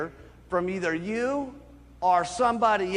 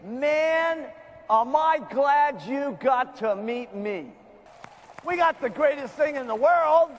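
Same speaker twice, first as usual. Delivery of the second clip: a lightly voiced eager fan; excited customer; 4 semitones higher than usual. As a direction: gush like a thrilled customer. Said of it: "begging you".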